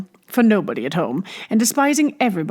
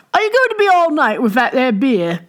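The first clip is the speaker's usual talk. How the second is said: a louder, higher, impatient rustic call; impatient shout; 5 semitones higher, 4 dB louder than usual. Acted. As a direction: hurry the barmaid along. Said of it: "shouted a more persistent voice".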